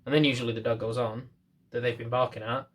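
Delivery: ordinary talk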